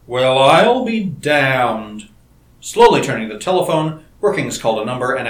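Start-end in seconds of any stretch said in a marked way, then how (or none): 0.1-2.1 stunned disbelief. A narrator's reading. Stunned reaction to bad news.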